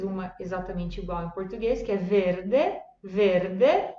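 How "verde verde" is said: verde with rolled r and clear final e; Italian verde. Shown as a demonstration. Teacher models Italian verde. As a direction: say verde ending in eh. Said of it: "però la pronuncia è diversa".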